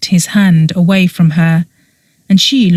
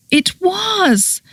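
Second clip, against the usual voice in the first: a tiny, high, softer voice; small voice; 13 semitones higher, 5 dB quieter than usual. A narrator's reading. Petra admitting it to Oberon, small high voice. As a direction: barely dare to say it. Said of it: "she said in a small voice".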